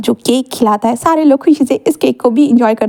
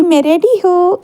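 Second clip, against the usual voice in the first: shouting; 6 semitones higher, slower than usual. Acted. Wing shouts to the family that he's ready, calling out. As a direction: shout it out proudly. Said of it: "ऐसे विंग ज़ोर से चिल्लाकर बोलता है".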